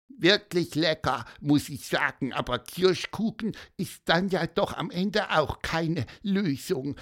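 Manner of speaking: high peeping bird voice, a touch sad; squeaky cartoon voice. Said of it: "piepste er und guckte ein bisschen traurig".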